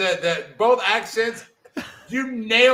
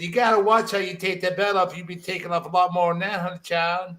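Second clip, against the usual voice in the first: put-on shitty Southern accent. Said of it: "an even shittier Southern accent".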